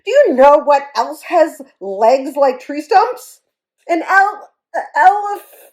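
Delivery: high, loud tearful wail breaking off. Acted. Hippo wailing before the weeps take over. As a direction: wail until the sobs cut it short. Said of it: "wailed Fragility".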